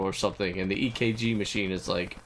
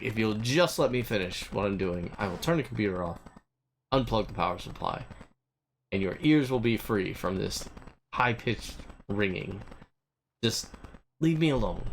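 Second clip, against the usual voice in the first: irritated; 3 semitones lower than usual. Retold or imitated. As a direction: let the annoyance leak through, held back.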